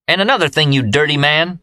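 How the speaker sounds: high, angry outburst at her man; shrill-edged furious scolding, voiced high; yelled. A narrator's reading. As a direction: yell it in his face, scolding. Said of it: "yelled Leanne".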